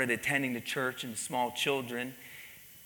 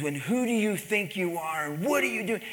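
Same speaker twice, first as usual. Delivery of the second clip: raised pitch, retelling an angry confrontation; mock angry yell; 6 semitones higher than usual. Husband confronting the pastor at the mall, angry. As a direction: imitate an irate man, held back. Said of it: "was violent and screaming".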